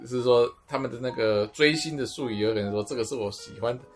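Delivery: normal talking voice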